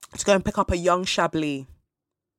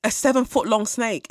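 higher and louder, "seven-foot-long" pushed with alarm; louder, higher, more alarmed; rising disbelief; 5 semitones higher, 4 dB louder than usual. Real, not acted. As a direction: say "seven-foot-long" like it just hit you. Repeating snake size in disbelief.

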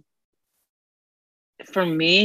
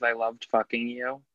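retold whisper; 8 dB quieter than usual. What he whispered to Claire, lightly hushed. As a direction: lightly imitate a private whisper, voice dropped. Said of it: "what he whispered to Claire was".

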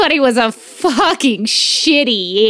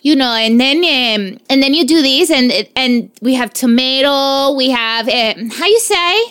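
playful Spanish-accented English, lightly put on; mock Spanish accent. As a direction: tease in a hammed-up Spanish accent. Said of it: "I can do the accent".

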